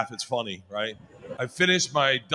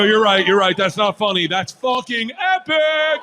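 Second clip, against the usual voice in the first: gleeful; 4 semitones higher, 4 dB louder than usual. Retold or imitated. Retelling gleeful reply to wife.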